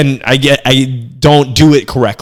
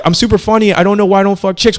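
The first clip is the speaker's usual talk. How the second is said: mock bragging dude, pitched higher; bragging guy; 7 semitones higher than usual. A comic mocks guys who think they're funny, lightly hammed-up brag. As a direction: hams up a guy who thinks he's hilarious. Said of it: "a lot of guys are like".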